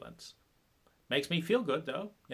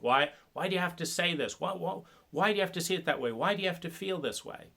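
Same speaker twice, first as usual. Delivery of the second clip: exasperated why; 5 semitones higher, faster than usual. Retold or imitated. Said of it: "dealing with their fear and their anger".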